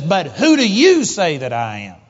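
loud, pointed retold question; imitating a forceful challenge; confronting challenge. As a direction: put it to them like a finger in the face. Jesus confronts him in dream.

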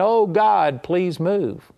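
mock desperate plea; imitating a begging Moses; begging God. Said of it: "stayed on his face begging".

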